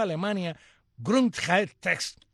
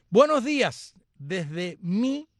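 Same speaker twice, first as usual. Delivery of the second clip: bright greeting; 5 semitones higher, 6 dB louder, much slower than usual. Retold or imitated. Reads listener Mayra's greeting.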